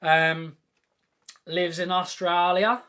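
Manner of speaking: jokey put-on Australian accent for a viewer. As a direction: have a cheeky go at an Australian accent. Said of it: "was that a good accent?".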